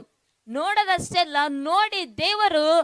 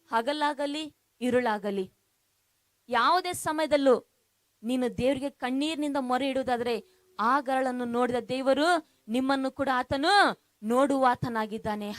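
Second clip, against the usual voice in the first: tender assurance; 3 semitones lower than usual. Real, not acted. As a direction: ease down and comfort them gently. Preacher turns to tender assurance.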